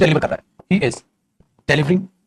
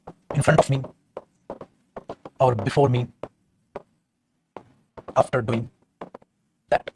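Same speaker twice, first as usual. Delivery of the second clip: slow dictation; 5 semitones lower, 6 dB quieter, much slower than usual. Shown as a demonstration. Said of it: "teacher dictates example".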